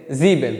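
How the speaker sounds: ज़ीबेन with a straight "ee", no glide; German pronunciation. Shown as a demonstration. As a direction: model ज़ीबेन as "zee-ben". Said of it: "वो सीधी सी आवाज़ निकलती है".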